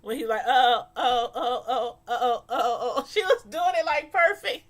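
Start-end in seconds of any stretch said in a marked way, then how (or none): 0.5-3.1 loud mock chant of oh oh; chanting along to the dance move, half laughing; imitating a rapper's dance chant. Retelling the TV show, chanting along with the rapper's move. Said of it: "that thing that a rapper used to do". 3.1-4.7 high, loud, laughing delight. Real, not acted. Telling her viewers about the dancer, laughing and excited.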